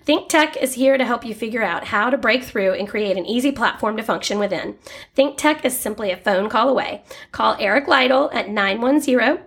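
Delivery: steady sponsor-read voice. Acted. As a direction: pitch the sponsor like a radio spot. Reads sponsor ad in podcast.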